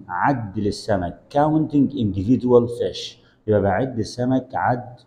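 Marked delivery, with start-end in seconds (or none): 1.3-3.2 slow model phrase. Shown as a demonstration. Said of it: "teacher models slowly".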